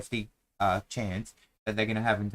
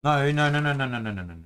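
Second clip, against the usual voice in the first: rapid run of no's, first ones louder and higher; quick correction; 4 semitones higher, 3 dB louder, faster than usual. Real, not acted. Player correcting teammate about the number, emphatic no's. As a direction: cut him off and correct him.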